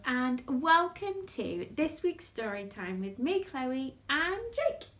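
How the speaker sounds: put-on bright sing-song greeting for kids; overbright kids party host. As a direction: welcome the little ones cheerfully. Greeting children at story time.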